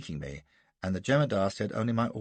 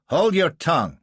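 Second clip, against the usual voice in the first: higher and louder furious roar; 7 semitones higher, 9 dB louder than usual. A narrator's reading. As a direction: roar him into silence. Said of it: "roars Gardner".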